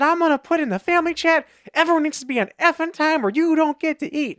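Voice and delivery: high, loud retold tirade; angry ultimatum. Threatening the late family in the chat, angry ultimatum. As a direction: lay down the law, pitched well up.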